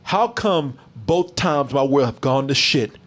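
mocking the commander's sassy line; sassy quote. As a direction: deliver it with attitude and a neck roll. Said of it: "she actually said it with the neck roll".

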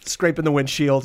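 laughing mock rant. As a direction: lecture him while cracking up. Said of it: "He's like".

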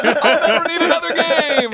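high, loud, drawn-out comic yell; stretched, high-pitched joking shout; mock outburst. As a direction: holler it over the laughter. Jokey outburst over others' laughter.

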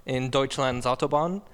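put-on slipping German accent, reading out figures; a loosely held German accent; German-accented English that wavers. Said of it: "My accent went to crap".

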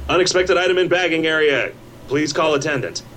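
lightly mimicked robotic machine prompt; self-checkout machine voice. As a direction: read it like a checkout kiosk.

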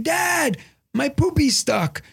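high, slow imitated child voice; little son. Son to dad from the bathroom, high kid voice. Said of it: "and he's like".

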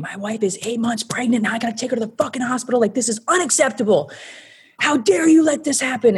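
high-pitched mock tirade, no real screaming volume; imitated screaming outrage. Retelling husband's furious call to Andy Cohen, high mock outrage. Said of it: "He's screaming".

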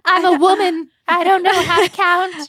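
high, loud airhead voice; mock ditzy woman. Friend mocks a ditzy excuse to a cop in a high ditzy voice. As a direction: play the helpless ditz for the cop.

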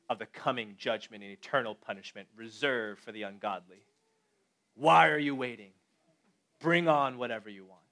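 like a defiant hero in a film, understated; dramatic movie voice. Acted. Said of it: "I'm gonna use the dramatic movie voice".

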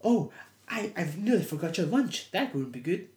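lightly voiced dotty aunt; aunt's odd acting. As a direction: imitate stilted, sing-song acting. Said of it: "her acting, it's like".

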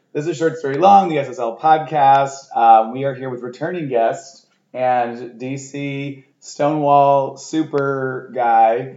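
slow announcer radio voice; smooth slow radio host intro. Acted. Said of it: "my little radio voice".

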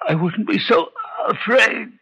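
slow, crying admission; tearful. Acted. Dying father confessing his fear of God, crying. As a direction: let the fear break through slowly.

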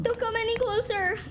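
whispered warning; a scared whispered warning; frightened whisper. Acted. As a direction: stop her with a hushed plea. Frightened ghost child warning.

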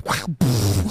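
explosive mouth noise like a bomb; imitated bomb blast. Friend mimicking the bathroom racket behind him, bomb-like noise. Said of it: "sounds like somebody's dropping a bomb".

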